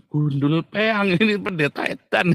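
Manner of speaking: drawn-out jeer breaking into laughter; laughing mock insult. Preacher retelling his retort to a silly claim, laughing mockery. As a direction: scoff slowly, then laugh it off.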